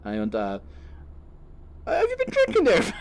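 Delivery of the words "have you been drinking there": very high, loud mock Irish guard; broad Donegal accent. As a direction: interrogate in an over-the-top Donegal accent. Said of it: "like a Donegal accent".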